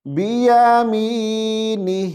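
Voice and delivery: بیامینہ slow, kasra dropped at the end; pause form. Shown as a demonstration. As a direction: stop on بیامینہ with no final i. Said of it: "تو کیسے پڑھیں گے؟".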